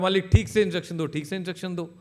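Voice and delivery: fast, loud robot repeat that fades at the end. Acted. Robot shouting at its owner at bedtime, fast and loud. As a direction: rattle it off loudly like a broken machine. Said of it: "वो और ज़ोर से बोल रहा है".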